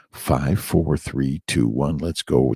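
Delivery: punchy, energetic countdown to launch; pump-up countdown ending on let's go; hype countdown. Acted. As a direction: count them down like a kickoff.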